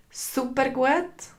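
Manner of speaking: slow, high "Super gut?"; enthusiastic. Shown as a demonstration. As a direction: stretch "Super gut?" out with delight. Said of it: "acts out answer options". (begeistert und gedehnt)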